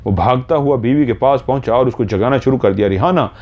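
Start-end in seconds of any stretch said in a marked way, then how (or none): 2.9-3.3 higher-pitched, calling her to wake; lightly acted urgent call to his wife. Husband trying to wake fainting wife. (जगाने के लिए पुकारते हुए)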